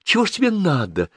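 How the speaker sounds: mother's indignant self-answered questioning; exclaiming. A narrator's reading. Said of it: "воскликнула она".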